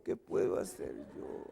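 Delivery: hushed, voiceless whisper; very softly. Acted. Helpless husband answering the scolding, whispered meekly. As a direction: shrink the plea down to a whisper. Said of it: "Pero muy quedito".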